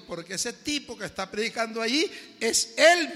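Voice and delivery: the fruit seller laughing at the stranger; laughing reveal. Retold or imitated. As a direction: speak it through laughter.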